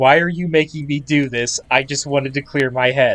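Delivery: ordinary talk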